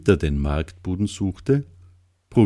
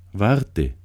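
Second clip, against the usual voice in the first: calling out; 4 semitones higher than usual. Acted. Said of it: "rief er".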